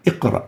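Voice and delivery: "اقرأ" with a small bounce on the qaf; "اقرأ" with only slight vibration of q; lighter qalqala. Shown as a demonstration. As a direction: move quickly from a lightly echoed q to ra in "اقرأ". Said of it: "a much lighter level of qalqala".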